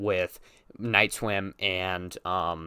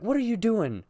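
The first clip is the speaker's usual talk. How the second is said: bad acting, deadpan; 11 semitones higher than usual. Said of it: "with, like, no emotion whatsoever".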